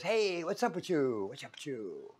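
mock street-accent greeting; picked-up street accent. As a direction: imitate a relative's newly picked-up street accent. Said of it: "that's not how you talk".

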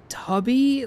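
high, drawn-out disbelief; mock incredulous. Host mocking a badly designed puzzle, high incredulous. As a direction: stretch the word up in disbelief.

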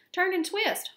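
high, excited goose call; urgent storybook goose; honking goose. A narrator's reading. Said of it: "honked the goose".

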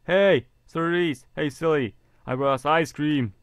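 put-on high, slow, sing-song girly greeting; high girly voice calling hello with treats; cutesy girl voice. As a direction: chirp it out like a sweet schoolgirl. Character voice greeting friends.

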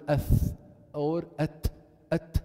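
ath and at with an audible puff of breath; whispered-air consonant demo; breathy demo. Shown as a demonstration. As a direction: let the air escape on ath and at. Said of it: "There is a breath coming out".

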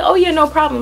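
easygoing agreement. Retold or imitated. Quotes her own easy agreement.

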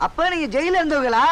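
blurting out. Acted. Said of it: "ஏன்டா கத்துற".

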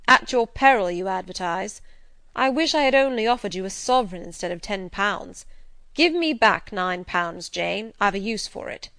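irritated master. A narrator's reading. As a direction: demand it forcefully as the annoyed master.

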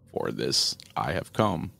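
very slow, low raspy voiceless demon; menacing demon. Acted. Shadow demon telling the mother why he came, slow menacing rasp. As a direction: draw each word out like a shadow.

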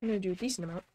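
talking while chewing; words round a mouthful of food; wolfing down food. Real, not acted. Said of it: "Apologies for the eating noises".

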